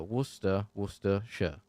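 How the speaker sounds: Worcester, Worcestershire as WUSS-tuh, WUSS-tuh-shuh; pronunciation demo. Shown as a demonstration. Streamer reminding viewers, Worcester and Worcestershire said part by part. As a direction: sound out Worcester, Worcestershire syllable by syllable, "ce" silent. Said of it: "You just got to remember".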